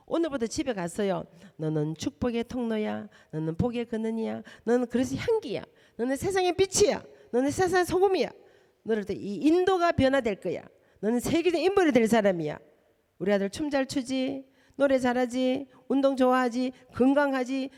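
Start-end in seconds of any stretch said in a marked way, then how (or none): 1.6-12.6 builds to loud proclamation of blessing; blessing words. Shown as a demonstration. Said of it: "언어를 바꾸셔야 돼". 13.2-17.7 bright, loud praise; praising son. Shown as a demonstration. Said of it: "좋은 것만 자꾸 얘기해".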